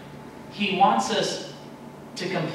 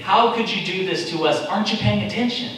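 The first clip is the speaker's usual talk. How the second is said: rising indignant plea, louder at the peak; Habakkuk's complaint; 5 semitones higher, 4 dB louder than usual. Acted. Preacher voicing Habakkuk's loud complaint to God. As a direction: accuse God of not paying attention. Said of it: "Habakkuk saying".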